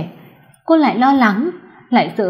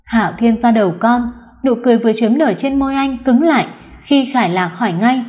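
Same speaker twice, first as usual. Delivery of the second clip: usual speaking voice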